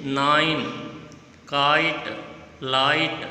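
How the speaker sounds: "नाइन, काइट, लाइट" with the ai drawn out; ai sound. Shown as a demonstration. Teacher quizzes on the odd sound, ai stretched in "नाइन, काइट, लाइट". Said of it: "इसमें अलग sound किसका है".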